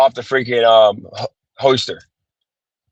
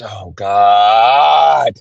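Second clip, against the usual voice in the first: exasperated shout; 4 semitones lower than usual. Real, not acted. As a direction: cry out in fed-up disbelief. Address not found, fed up.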